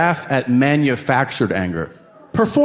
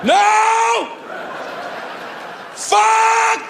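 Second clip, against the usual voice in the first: frustrated full-throated shout; yelling in frustration; much slower than usual. Retold or imitated. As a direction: roar it out in despair. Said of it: "I lose my shit".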